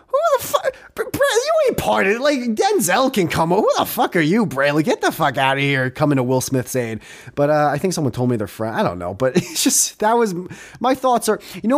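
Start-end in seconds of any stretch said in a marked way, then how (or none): 0.1-7.0 mock outrage. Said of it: "And I'm like".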